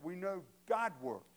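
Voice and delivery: "God works" leaned on firmly; stress on GOD WORKS. Real, not acted. Preacher underlining his own emphasis, firm "God works". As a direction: repeat it with weight on "God works". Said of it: "the emphasis is mine".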